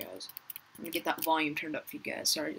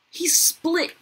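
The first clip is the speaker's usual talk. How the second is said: startled whisper; 10 semitones higher, 9 dB louder than usual. Real, not acted. Gasp at a splitting player.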